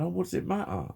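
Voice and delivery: mock impatient dismissal; dismissive mock voice. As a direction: mimic someone waving your problem away. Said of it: "you'll typically get someone going".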